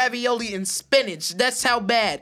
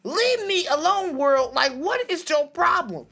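fed up shout; 7 semitones higher, 4 dB louder than usual. Acted. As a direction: yell it like the whole world is bugging you. Rooster told off loudly.

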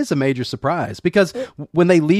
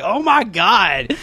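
slow, higher, laughing oh my God; mock shocked laugh; laughing disbelief; 7 semitones higher, much slower than usual. Recalling the scene with a shocked laugh.

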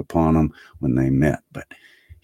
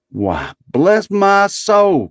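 high, loud, drawn-out exclamation; amazed nephew crying out; astonished cry; 6 dB louder, much slower than usual. A narrator's reading. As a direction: stretch it out in delighted amazement. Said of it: "cried Fred".

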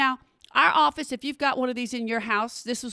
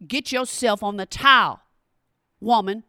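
mock husband order; 5 dB louder than usual. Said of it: "he yells at me".

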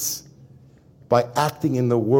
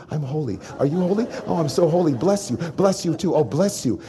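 mock holy blessing; 3 semitones higher than usual. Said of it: "when I'm performing for the world".

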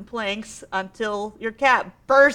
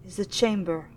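ghostly spirit voice. Acted.

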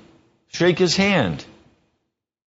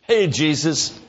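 "Hey, Jesus" tossed off at usual pitch, casual; offhand hey Jesus; 2 semitones higher than usual. Retold or imitated. Preacher mocking a casual hello to Jesus, offhand. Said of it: "You do not come up to Jesus and say".

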